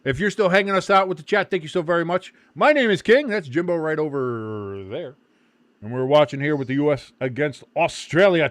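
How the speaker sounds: sports broadcaster. Real, not acted. Stream host announcing and commentating.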